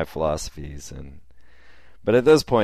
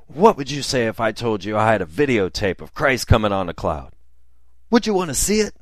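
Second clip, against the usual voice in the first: higher, louder, a zealous sales pitch that leaps up on the question; hammed-up eager pitch; 5 semitones higher, 4 dB louder than usual. Camouflaged woman offers narrator her videotape, hammed-up zeal. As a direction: sell the miracle tape with wide-eyed zeal.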